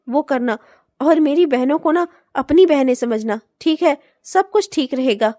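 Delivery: low, gentle comfort; reassuring. Acted. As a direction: soothe the new wife. Husband reassuring his bride.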